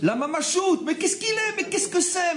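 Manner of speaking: high, sing-song "mamachoute" with exaggerated disbelief; mocking baby talk. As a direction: tease the word like cooing at a baby.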